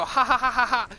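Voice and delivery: forced ha-ha at a prank on yourself; gleeful mock cackle. Imagining laughing while writing prank note.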